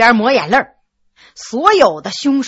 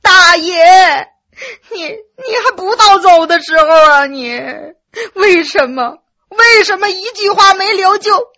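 high, loud crying lament; loud weeping; 4 semitones higher, 4 dB louder than usual. A narrator's reading. Servant weeping over his dead master, loud sobs. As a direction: sob out the grief at full voice. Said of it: "杨峰也在旁边大放悲声".

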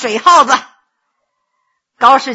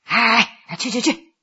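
brusque, softer wave-off; impatient shooing; 4 semitones lower, 5 dB quieter than usual. Acted. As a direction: shoo the beggar away, annoyed. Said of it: "就不耐烦地摆了摆手".

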